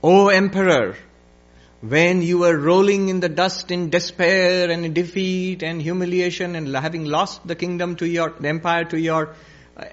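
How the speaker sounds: declaiming sage questioning an emperor; sage's challenge. Acted. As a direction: address the ruler with measured force.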